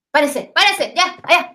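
órdenes rápidas y más agudas; abuela urgente. Retold or imitated. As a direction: apura a todos a levantarse. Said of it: "Y ahí viene la, la frase". (abuela despierta a los nietos, con urgencia)

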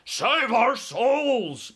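high, loud, very drawn-out wail; panicked giant's bellow. A narrator's reading. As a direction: bellow for help like a terrified giant. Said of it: "bellowed the flesh lump eater".

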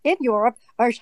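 European English with an English accent. Shown as a demonstration. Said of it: "sort of an English accent".

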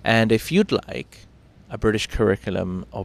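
upbeat sponsor read, bright and punchy. Acted. Host reading the sponsor plug to viewers, upbeat ad read. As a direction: sell the sponsor like a morning show host.

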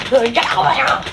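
"here" with a Southern dropped R; mock-angry order, R dropped in "here"; angry R pronunciation. Shown as a demonstration. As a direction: demo of an angry Southern "Get over here!". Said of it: "Just the way I say it when I'm angry".

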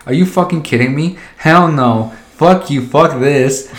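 indignant retort. Retold or imitated. Retelling the reply to Amazon's letter, mock outraged. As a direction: tell them off.

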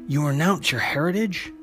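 taunting. Acted. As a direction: taunt her with a lifted questioning pitch. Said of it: "Belasco taunts her".

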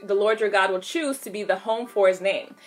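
measured Bible reading aloud; steady, instructive read-aloud of scripture. Real, not acted. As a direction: read the verses evenly, leaning on key words. Reads scripture aloud to viewers.

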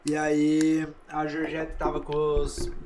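chewing while talking; mouth full. Real, not acted. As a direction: talk round a mouthful of food. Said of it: "Pode falar com a boca cheia".

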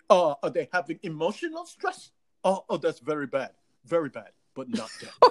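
lightly acted deadpan sympathy; Cuomo. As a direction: offer token sympathy, then brush it aside. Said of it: "he was like".

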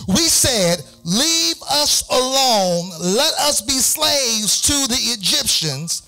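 mock panicked Israelites. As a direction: whine it like scared people in the desert.

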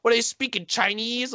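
high, puzzled dad voice; a hint of an outraged dad; confused dad.

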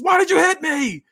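high, slow whiny character voice; whiny complaint. Acted. Punched wrestler holding his jaw, high slow whine. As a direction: whine it out, hurt and baffled. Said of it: "holding his jaw and says".

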